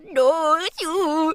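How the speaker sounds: a hint of a cutesy voice; light cutesy anime-girl no-you. Shown as a demonstration. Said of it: "It's just like a".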